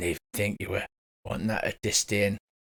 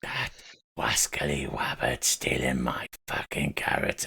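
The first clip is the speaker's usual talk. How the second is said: whispered w-for-r cartoon lisp; cartoon hunter lisp; 8 semitones lower, slower than usual. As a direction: hiss it like a hapless cartoon hunter.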